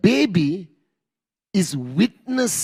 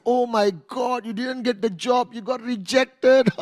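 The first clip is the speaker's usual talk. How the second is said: hammed-up wailing lament, slightly raised; mock sadness; 4 semitones higher than usual. Family reacts to a failed job interview, mock sadness. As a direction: imitate a family mourning bad news. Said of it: "your family reacts in sadness".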